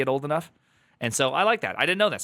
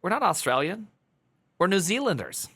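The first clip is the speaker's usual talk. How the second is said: imitating a band; 6 semitones higher than usual. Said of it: "a band's sketch where they're like".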